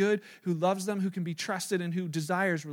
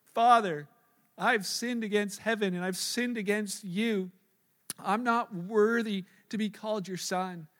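rehearsed speech; slower than usual. Acted. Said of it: "I got a speech".

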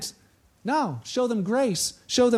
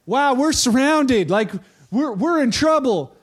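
high, slow, alarmed gasp of a servant; a servant waking to an army, dragging the words out; 4 semitones higher, 4 dB louder, slower than usual. Retold or imitated. Servant sees army surrounding town.

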